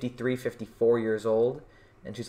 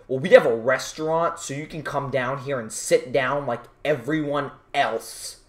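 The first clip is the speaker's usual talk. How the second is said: stern manager; 2 semitones higher, 4 dB louder than usual. Retold or imitated. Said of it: "the manager".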